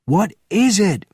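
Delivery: high, loud roar. A narrator's reading. Benjamin rushing to the window, roaring high and loud. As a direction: roar the question out. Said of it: "roared Benjamin".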